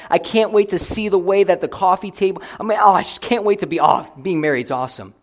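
ludicrously eager groom-to-be, lightly hammed up; building mock enthusiasm; mock gushing. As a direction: gush over all the wrong things. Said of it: "can you imagine how ludicrous it would sound".

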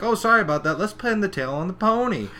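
high-pitched, breezy party host; perky retold apology. Pinkie moving the party to the next game, perky. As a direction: brush it off and rally the guests, high. Retelling Pinkie's cheerful suggestion.

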